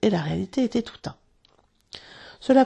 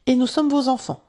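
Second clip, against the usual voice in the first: higher and louder, eager announcement; crying out; 5 semitones higher, 4 dB louder than usual. Acted. Twins crying out to Wendy that they are her children. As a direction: cry it out proudly together. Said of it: "s'écrièrent les jumeaux".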